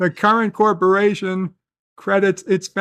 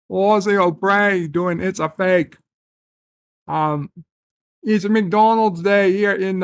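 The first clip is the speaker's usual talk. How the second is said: a lightly put-on Aussie accent, playful. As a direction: slip into a hammed-up Australian accent. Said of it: "love your Aussie accent, Bird. Let's go".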